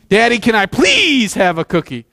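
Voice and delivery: put-on whiny child. Shown as a demonstration. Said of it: "The exact same words, different attitude".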